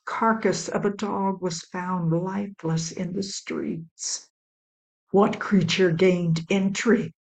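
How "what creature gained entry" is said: roaring father. Acted. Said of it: "roared the father".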